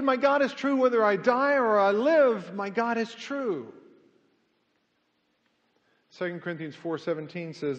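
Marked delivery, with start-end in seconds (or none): 0.0-3.7 proclaiming it loud and high. Retold or imitated. Preacher quoting the survivor's vow, loud. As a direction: declare his faith with full force.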